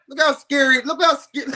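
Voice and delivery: giggling through the words; can't keep a straight face; laughing at the clip. Real, not acted. Laughing while mocking fighter's face.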